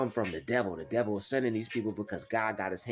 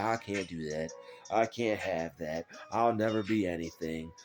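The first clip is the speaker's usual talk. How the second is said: mock defeated voice; 4 semitones lower than usual. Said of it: "walking around like that".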